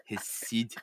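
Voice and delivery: hushed, dramatic whisper; dropped voice. Acted. Lizzie reveals the worst to Jamie, dropped to a whisper. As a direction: let it sink to a whisper. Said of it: "Her voice has dropped".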